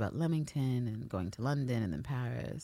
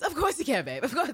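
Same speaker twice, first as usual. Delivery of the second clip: eager agreement; 11 semitones higher than usual. Retold or imitated. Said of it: "And Ann Walker's".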